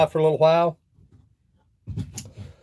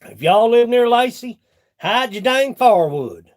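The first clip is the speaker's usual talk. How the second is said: mock warning; 5 semitones higher, 4 dB louder than usual. Loud mock warning to viewers.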